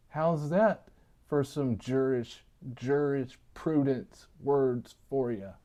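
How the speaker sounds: lisping on the s sounds; talking with a slight lisp. Real, not acted. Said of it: "my lisp is kicking in".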